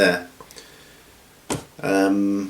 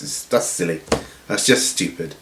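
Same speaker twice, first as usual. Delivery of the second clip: usual speaking voice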